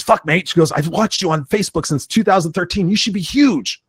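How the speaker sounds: a hint of an enthusiastic Kiwi mentor; retold Kiwi coach. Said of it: "She's New Zealand, uh, Kiwi".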